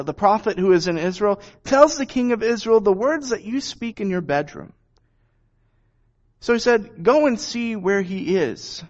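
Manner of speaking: measured Bible reading to a congregation; lightly voiced scripture reading. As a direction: read the passage steadily, like a lesson from the pulpit. Reads scripture passage aloud.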